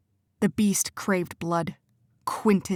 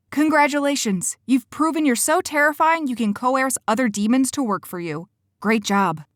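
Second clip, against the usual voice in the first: much higher, louder mock congratulations; mock him with fake cheer; sarcastic praise; 6 semitones higher, 4 dB louder than usual. Cora sarcastically congratulates Quentin, mocking and loud.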